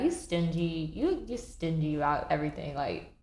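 low, mocking kid voice; teasing mom. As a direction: brush her off with a smirk. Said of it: "looking at her like".

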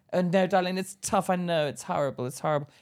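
mock soothing, condescending; patronizing nurse. Imitating the nurse who patronized Charlotte, mock soothing. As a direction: talk down sweetly like a bored nurse. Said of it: "It sounded so patronizing".

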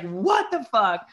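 slow, high, loud disbelief; retold astonishment. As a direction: draw it out, acting stunned. Reenacts shock at monk vanishing.

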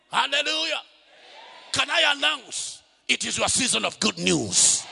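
building to a full preaching shout. Acted.

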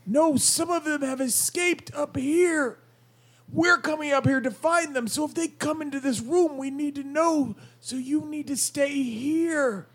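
strained goblin voice. Acted. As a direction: act a goblin with a strained throat. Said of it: "that accent and the drained voice".

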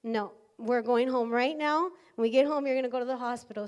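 husband overruling his sick wife, firm and loud; firm insistence. Retold or imitated. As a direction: put your foot down for her. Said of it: "and he tells me".

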